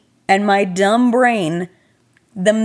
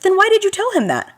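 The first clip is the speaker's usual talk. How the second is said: exasperated question; 11 semitones higher, faster than usual. Retold or imitated. Friend's husband scolding.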